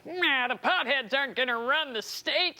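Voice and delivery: lightly voiced politician impression; mock a governor with a slightly put-on voice; Jerry Brown. Host mocking the governor's pothead remark, put-on politician voice. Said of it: "now Jerry Brown is calling everyone".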